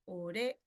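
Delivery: "urea" broken up as u-RÉ... a; teacherly syllable-by-syllable "urea", stress on RE; stress on RE, split. Shown as a demonstration. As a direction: hold RE in "urea", then set the final A apart. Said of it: "El acento está en re".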